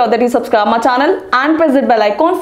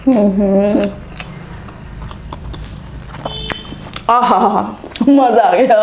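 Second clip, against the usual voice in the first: eating between words; talking while chewing. Real, not acted. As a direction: mouth partly full of rice. Seen 1: Hand-fed bite at -1 to +0.5; jaw and lips chewing while talking.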